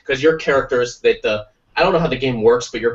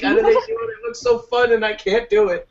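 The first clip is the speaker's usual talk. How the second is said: very high wistful whine; 11 semitones higher than usual. Retold or imitated. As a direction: pine over it.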